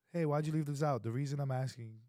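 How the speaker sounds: light, easy question; lighter ask. Shown as a demonstration. To his wife, asking lightly about something left out. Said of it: "That was so much lighter than asking".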